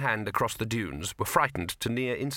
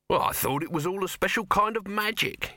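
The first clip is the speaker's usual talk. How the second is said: a shade disappointed; 8 semitones higher than usual. A narrator's reading. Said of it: "a shade disappointed".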